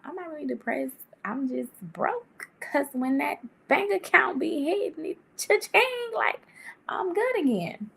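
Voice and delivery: quoting a meme girl in a put-on African accent, high on cha-ching; a playful try at an African accent; attempted African accent. Vlogger quoting a meme, in an attempted African accent. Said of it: "I'm trying to do an African accent".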